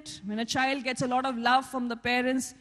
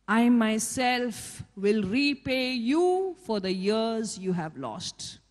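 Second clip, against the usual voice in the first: voicing God; 4 semitones lower, slower than usual. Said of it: "you know what God says?".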